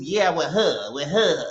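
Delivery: imitated country Mississippi drawl; teasing Mississippi-accent impression; Scotty. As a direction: lightly mimic a Mississippi accent. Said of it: "y'all be hearing him in his reviews".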